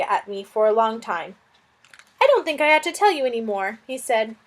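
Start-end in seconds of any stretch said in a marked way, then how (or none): 2.2-3.8 a flustered little lizard fretting over a guest; fussy lizard. Acted. Lizard Suz speaking.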